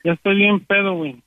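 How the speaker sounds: put-on slurring like a drunk. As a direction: fake being drunk on the phone. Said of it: "lo que dijiste que estabas borracho".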